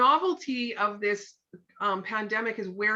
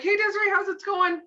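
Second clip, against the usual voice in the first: bright, high, louder hello that skims over her mood; breezy sing-song greeting; sunny surface-level hello without really asking; chirpy old greeting; 11 semitones higher, 7 dB louder than usual. Shown as a demonstration. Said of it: "And I'm like".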